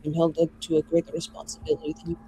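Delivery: quiet, measured mage in character; restrained mage. Acted. Mage answering the other about responsibility, quiet and restrained. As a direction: speak as the mage, softly and guardedly.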